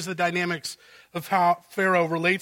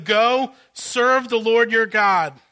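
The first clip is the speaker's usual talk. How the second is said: grudging royal permission; 4 semitones higher, 6 dB louder, slower than usual. Acted. Pharaoh relents.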